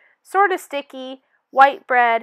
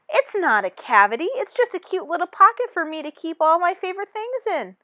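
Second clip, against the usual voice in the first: denial; 5 semitones higher than usual. Acted.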